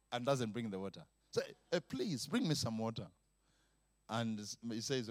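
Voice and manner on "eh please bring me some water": soft, low repeat ask; father asking his son mildly; polite second request. Acted. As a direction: keep it quiet and patient. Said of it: "The third time".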